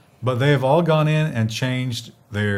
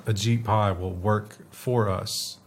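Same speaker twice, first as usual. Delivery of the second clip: dry, sarcastic deadpan. Real, not acted. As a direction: say it flat and mock-sincere. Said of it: "He said in a deadpan, sarcastic voice".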